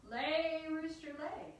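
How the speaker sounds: high, drawn-out call to the rooster; high ringing incantation; calling out magic command. Acted. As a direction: sing out the command, stretching the first word.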